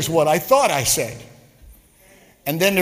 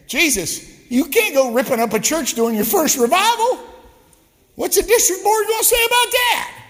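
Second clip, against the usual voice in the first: higher and louder, climbing to a shout; alarmed Peter; 12 semitones higher, 3 dB louder than usual. Retold or imitated. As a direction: Peter panicking at Jesus, rising to a yell. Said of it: "it's like Peter saying".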